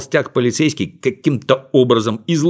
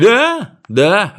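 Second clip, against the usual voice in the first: authoritative; 10 semitones higher, 5 dB louder than usual. Acted. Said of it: "авторитетно подтвердил Винтик".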